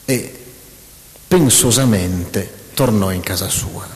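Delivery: hammed-up reading of clichéd prose, reading the punctuation aloud; mock reading. Mocking clichéd dialogue writing to the audience, a mildly hammed-up reading. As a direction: parody a stiff novel, punctuation and all. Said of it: "queste cose che io non tollero più".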